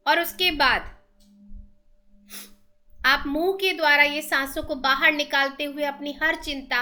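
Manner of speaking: measured meditation guide with long pauses; steady, even-toned breathing instructions; guided meditation. Real, not acted.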